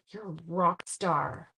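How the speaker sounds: a gasp, then slow, soft awe; admiring a viewer's toughness, awed; amazed praise. Real, not acted. Praising viewer who had both knees.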